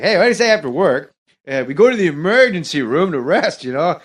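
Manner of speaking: chatty Norm voice to his buddies; Norm impression. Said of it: "I did it in the impression".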